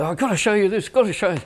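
high, eager impression of an excited guitarist; excited imitation. Guitarist bursting into the control room, excited. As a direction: burst in high-pitched, bubbling to show it off. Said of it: "he was all excited".

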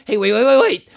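loud, insistent plea to hold on; urgent interjection. Acted. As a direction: cut in loudly, desperate to be heard. Pleading to be heard out.

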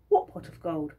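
flat innocent denial; playing innocent. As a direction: shrug it off as if you know nothing. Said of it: "said Georgie".

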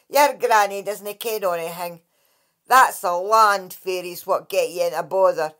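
the Dracai brushing off Kate's granny; dismissive water fairy. Acted. Lightly voiced scornful sprite.

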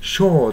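"sure" as "shaw"; long aw in "sure", no r; non-rhotic "sure"; British-style sure. Shown as a demonstration. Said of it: "sureっていう具合に".

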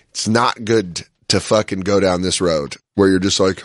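ordinary talk

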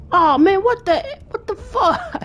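high, rushed panicky squeal; frantic high cries while hunting for the key; panicked yelp. Real, not acted. Panicking at a locked puzzle.

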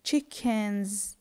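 "chickens" ending in a voiced z; final S as Z. Shown as a demonstration. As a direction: buzz the last sound of "chickens". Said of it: "the S here with Z".

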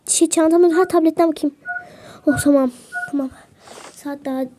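ordinary delivery

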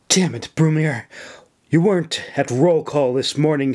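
snapping. Acted. Officer snapping at a recruit who skipped roll call. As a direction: snap at him for missing roll call. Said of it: "she snapped at him".

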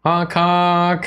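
high goofy honking; silly clown. Acted. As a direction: honk it like a clown. Clown honk imitation.

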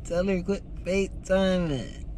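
teasing. Pretend. Teasing to viewers.

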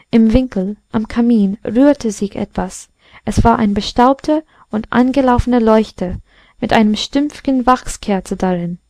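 plain reading voice

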